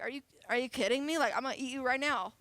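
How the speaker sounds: fast, exasperated dog brushing off a chick; mock annoyed dog. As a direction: rattle it off like an irritated dog. Dog voiced in story.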